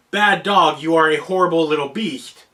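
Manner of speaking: even, conversational scolding without anger; calm, normal voice. Shown as a demonstration. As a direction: say the insult calmly, as if chatting to the dog. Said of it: "spoke in a calm, normal voice".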